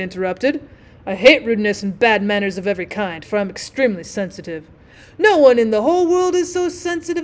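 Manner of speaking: lightly voiced offended grandee; a touch of wounded pomposity; self-important rocket. Rocket complains of rude interruption, mildly huffy.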